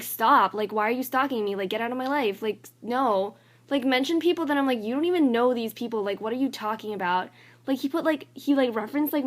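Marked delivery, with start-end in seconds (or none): 0.0-3.4 loud, exasperated retort, hitting the first word hard; emphatic, irritated pushback; annoyed. Retold or imitated. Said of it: "I'm just so annoyed". 4.8-7.3 raised-voice indignant retort, easing off at the end; loud, irritated disbelief; mad. Retold or imitated. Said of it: "super mad about that".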